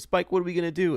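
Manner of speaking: mock desperate plea; Stephen A imitation. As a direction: beg a friend for help, hammed up. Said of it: "And he goes".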